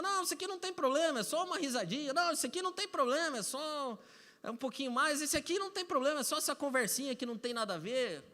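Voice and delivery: high, hurried mock justifying; dismissive excuse-making. Voicing excuses people make to themselves. (desculpinha imitada, aguda e apressada)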